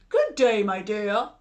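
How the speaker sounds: a hint of a growling wolf; growled greeting. Wolf greeting Little Red Riding Hood, mild growl. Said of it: "growled the big bad wolf".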